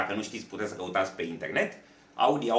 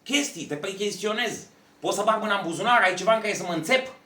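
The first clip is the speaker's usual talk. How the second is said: bossy cop; 10 semitones higher, 6 dB louder than usual. Retold or imitated. Cop searching him for weapons.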